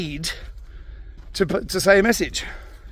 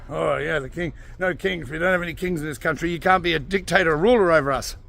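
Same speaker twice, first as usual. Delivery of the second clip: mocking protesters. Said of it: "they tried this once before".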